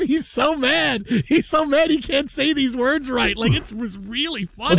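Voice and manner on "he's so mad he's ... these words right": mock angry anchor. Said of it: "Oh my goodness".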